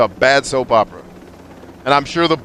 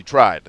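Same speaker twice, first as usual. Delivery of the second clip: tried slowed and leaned on; stress on tried; 3 semitones lower, 3 dB louder than usual. Real, not acted. Streamer telling chat about his wife, stress on tried. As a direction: lean hard on the word tried, slowly. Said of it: "I stress the word tried".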